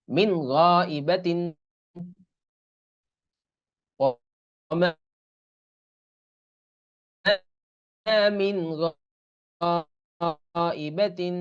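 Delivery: slow, stretched "min gha-ibatin"; clear "min" before ghain. Shown as a demonstration. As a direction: recite "gha-ibatin" with long vowels. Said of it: "মিনটা মিন এরকম উচ্চারণ". ("মিন গাইবাতিন" ধীরে টেনে পড়া)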